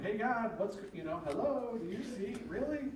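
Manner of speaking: high-pitched incredulous protest; acted-out exasperation; mock complaint. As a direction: question God in disbelief, pitch leaping up. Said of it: "this is his complaint to God".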